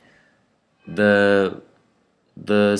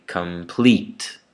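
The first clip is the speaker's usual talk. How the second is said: "complete" as kum-PLEET; weak first syllable, strong second in "complete"; second-syllable stress; 2 semitones lower than usual. Shown as a demonstration. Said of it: "The second one is stressed".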